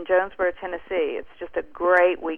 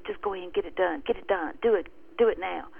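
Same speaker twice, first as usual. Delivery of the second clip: quick, softer mock whisper; fast devil whisper; 5 dB quieter, faster than usual. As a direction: hurry the words as if hissed in his ear. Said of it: "That devil whispered in my ear real fast".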